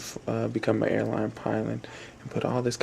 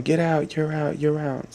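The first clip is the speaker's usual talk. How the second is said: higher, jeering call across the gym; 4 semitones higher than usual. Acted. Dodgeball players telling the deaf kid he's out, jeering call. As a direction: shout him out of the game.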